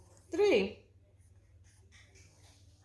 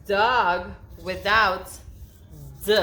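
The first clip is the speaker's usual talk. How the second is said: slow stretched prompt; 5 dB louder, slower than usual. Shown as a demonstration. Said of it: "teacher stretching a prompt".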